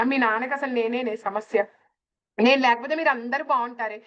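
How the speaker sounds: a hint of a complaining mother, near own voice; lightly voiced mother. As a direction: retell mom's line almost plainly. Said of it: "అమ్మ కూడా ఇదే అంటది". (తల్లి మాటను స్వల్పంగా నటించడం)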